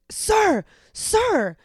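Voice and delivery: high, loud call of sir; mock yell. Older lady yelling after the traveler, a high loud call. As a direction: shout sir across the room. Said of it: "she turns around and yells".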